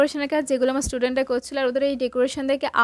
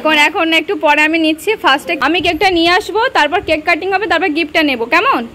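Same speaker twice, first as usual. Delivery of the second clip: loud instructions; 6 dB louder than usual. Real, not acted. Teacher directing students loudly.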